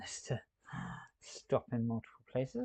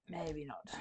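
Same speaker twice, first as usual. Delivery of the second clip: whispered; 3 semitones higher, 7 dB quieter than usual. Real, not acted. Playful aside.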